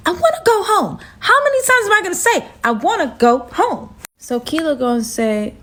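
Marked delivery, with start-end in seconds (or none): 0.1-3.9 higher, whiny fake-cry plea; half-sob that you want home; mock crying. Herself whining to go home, mock crying. Desperate plea during standoff.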